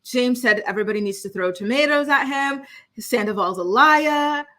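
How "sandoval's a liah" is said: drawn-out mock British accent; slow put-on British accent with a dropped final r. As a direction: slip into a playful British accent, slowly. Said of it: "that British accent thing on the liar thing".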